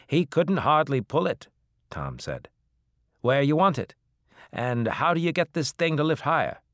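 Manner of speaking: put-on high, loud eager farm boy; a strapping boy calling out questions; young country lad. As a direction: grandson asking about the grav lift. Young grandson voiced.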